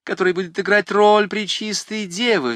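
rushing, high and eager; impetuous. A narrator's reading. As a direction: blurt it out in one decisive rush. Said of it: "Со стремительностью воды". (стремительно и решительно)

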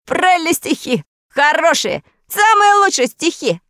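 high, creaky, excited shouting. A narrator's reading. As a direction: creak out praise. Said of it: "кричал своим скрипучим голосом".

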